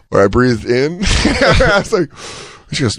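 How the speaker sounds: ordinary talk, nothing marked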